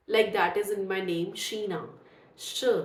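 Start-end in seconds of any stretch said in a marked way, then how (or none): 2.4-2.7 "श" as a single hushing phonics sound; isolated SH sound. Shown as a demonstration. Teacher demonstrates the digraph, "श" as one isolated sound. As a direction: sound out "श" on its own. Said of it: "हम श pronounce करेंगे".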